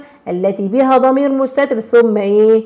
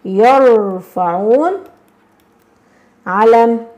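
slow dictation; much slower than usual. Shown as a demonstration. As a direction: spell it out slowly for the class. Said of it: "طبعًا أقول إيه؟".

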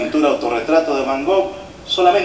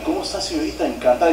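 fake flirty voice; 6 dB quieter, faster than usual. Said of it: "otra para conocer viejas".

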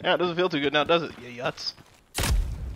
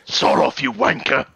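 put-on lightly done British accent, lower; mock British accent; 10 semitones lower than usual. Gamer copying a British game character in a light British accent. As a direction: parrot the British soldier. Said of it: "Price is British".

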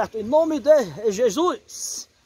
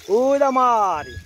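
urging call; slower than usual. Real, not acted. Urging Maria to rock the boat.

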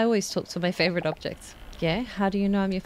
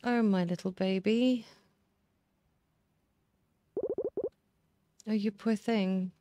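tender comfort. Acted. Comforting the abandoned pet.

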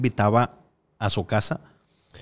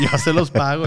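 laughing; 6 semitones higher, 3 dB louder than usual. Real, not acted. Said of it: "laughs while repeating".

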